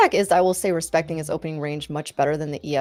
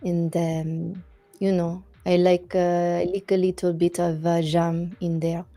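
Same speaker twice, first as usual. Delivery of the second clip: mock French accent. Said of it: "we are now in the French accent".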